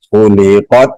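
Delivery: "خلقت" ending in a stopped, unreleased t; closed final ta. Shown as a demonstration. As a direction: shut the voice off at the end of "خلقت". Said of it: "آواز کو بند کریں گے".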